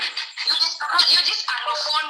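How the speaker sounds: retold high-pitched contempt; imitated scornful scolding. Woman retells the man insulting her, scornful scolding.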